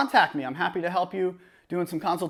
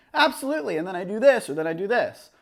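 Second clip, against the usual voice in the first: talking to camera. Shown as a demonstration. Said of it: "It's just different than if I were to be like".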